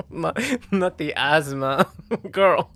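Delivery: words breaking into real laughter; fighting through giggles to finish; laughing. Real, not acted. Still laughing at own slip, words breaking into giggles. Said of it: "I can't stop laughing".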